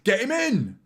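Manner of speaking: high, loud, slow mock fan gushing; loud, high mock-fan hype. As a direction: ham up the overexcited fans. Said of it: "everyone's like".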